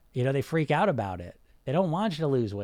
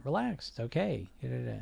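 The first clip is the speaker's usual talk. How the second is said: calming them down; 7 dB quieter than usual. Retold or imitated. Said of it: "I'm calming them down".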